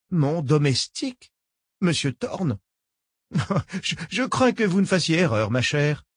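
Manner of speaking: put-on genteel old woman, falsely kind. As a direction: purr it like a polite old villain.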